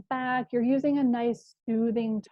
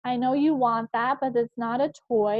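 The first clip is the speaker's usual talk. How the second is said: soothing voice; 3 semitones higher than usual. Shown as a demonstration. Mother redirecting toddler from a shelf, mildly soothing. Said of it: "You're using that soothing voice".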